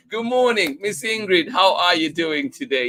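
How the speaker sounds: light up as you greet her; excited greeting. Real, not acted. Host cheerfully greeting a viewer in the chat, excited.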